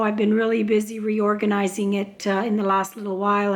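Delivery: hoarse, losing voice. Real, not acted. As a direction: speak with a hoarse, fading voice. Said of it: "sorry if I'm losing my voice".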